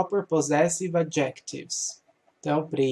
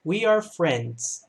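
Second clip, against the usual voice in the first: slow reading; slower than usual. Shown as a demonstration. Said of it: "O plural do verbo to be é are".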